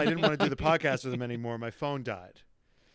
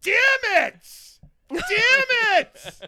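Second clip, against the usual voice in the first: high, loud cartoonish damn-it cry; hammed-up frustrated outburst; mock frustrated shout; 7 dB louder than usual. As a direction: yell it like a foiled villain. Frustrated at being robbed.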